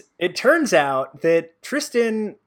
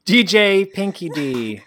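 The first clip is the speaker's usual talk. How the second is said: DJ announcer; 4 semitones higher, 6 dB louder, slower than usual. Pretend. Hypes up a DJ name.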